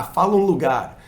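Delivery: loud, shouted calling-out. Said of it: "alguém tem que gritar".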